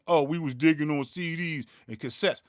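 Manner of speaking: a lightly put-on voice mocking the CD diggers; mocking imitation. Mocking producers who dig on CDs, in a light put-on voice. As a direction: sneer it out as a mock quote of the fakers. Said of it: "they saying".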